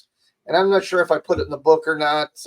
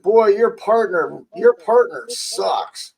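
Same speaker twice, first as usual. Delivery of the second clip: mild mock yell, raised pitch, drawn out; retold yell; 5 semitones higher, slower than usual. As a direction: imitate an irate coach yelling, without full volume. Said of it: "she yelled in my ear".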